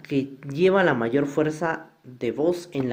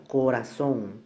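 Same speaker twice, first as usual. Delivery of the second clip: "corazón" with weight on a drawn-out "zón"; final-syllable stress; slower than usual. Shown as a demonstration. Teacher gives an aguda example, stress on ZÓN in "corazón". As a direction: lean on the last syllable of "corazón". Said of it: "la mayor fuerza de voz está en la última sílaba".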